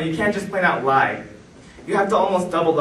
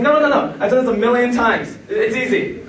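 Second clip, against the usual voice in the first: higher, laughing no no no; laughing reassurance; 6 semitones higher than usual. Retold or imitated. Friend laughing off the danger of throwing him up the wall. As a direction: brush off their worry through laughter.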